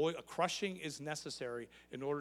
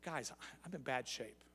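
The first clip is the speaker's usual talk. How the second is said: hurting plea; 5 dB quieter than usual. Retold or imitated. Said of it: "what he's saying is".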